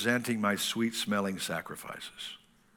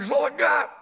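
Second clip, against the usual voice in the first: put-on high young self; 14 semitones higher, 5 dB louder than usual. His own retorted voice.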